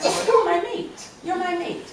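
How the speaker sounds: high, loud, cooing mock endearment; mock sweet voice. Poet mocking a lover's pet name, high and cooing. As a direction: coo it like a doting lover. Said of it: "coming from like".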